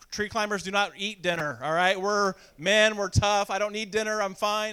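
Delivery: put-on stuck boy brushing off his sister, loud macho bluster; tough-guy bluster. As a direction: bluff like you're a grown man.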